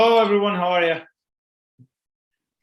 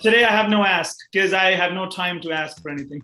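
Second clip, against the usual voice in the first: laughing while talking; 3 semitones higher, 3 dB louder than usual. Real, not acted. Jokes about being fully booked.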